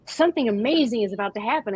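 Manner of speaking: lightly voiced eager dog; a hint of a breathless dog; voicing the dog. Dog in the car expecting fun, lightly voiced eager. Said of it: "the dog is like".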